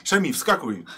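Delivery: calling out. Acted. Rider telling Szemi to jump on, calling out. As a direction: call to someone running alongside.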